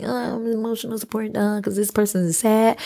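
lightly voiced cutesy airport dog; a hint of a chirpy little dog talking; support dog voice. Mocking the little airport dogs, mild cutesy voice. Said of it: "little dogs you see at the airport that's like".

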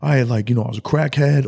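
retelling the chapel preacher, hammed-up sermon. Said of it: "preaching his heart out".

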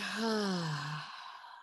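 slow audible exhale; long relaxing sigh. Shown as a demonstration. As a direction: let the breath out with a sigh. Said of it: "let it out with a sigh".

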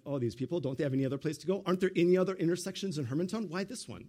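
fast, exasperated rant under the breath; mock-irritated grumbling in traffic; irritated driver. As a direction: rattle off the complaint like a fed-up commuter. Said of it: "I'm like".

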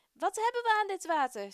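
high, loud furious yell; angry shout. Acted. An angry man shouts at Moses about the water. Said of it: "schreeuwt een boze man tegen Mozes".

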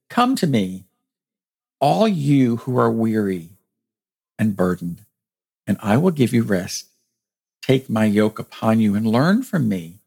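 measured Gospel reading with pauses between phrases; spaced-out pulpit reading; scripture reading. A narrator's reading. Reads words of Jesus.

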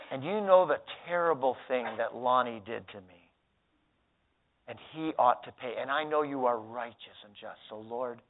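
lightly hammed pious prayer; mock vengeful prayer. Shown as a demonstration. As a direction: pray sweetly for revenge. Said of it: "The prayer would sound something like this".

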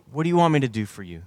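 asked quickly in one run. Acted. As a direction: ask it briskly, in an understated way. Jesus' question, first quick take.

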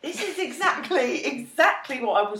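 high laughing surprise; surprised. Retold or imitated. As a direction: blurt it, half laughing. Recalled realisation.

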